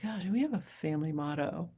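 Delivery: soft whisper, wondering to herself; whispered musing. Retold or imitated. Asked about a family motto, she whispers it to herself. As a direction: breathe it as a private question. Musing aloud after the interviewer's question.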